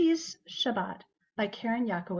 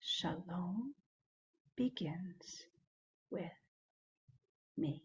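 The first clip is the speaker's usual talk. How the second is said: softened, very soft, very quiet delivery; 4 semitones lower, 11 dB quieter than usual. Leading a group repeating a phrase that keeps getting softer, saying it softer. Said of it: "Now softer".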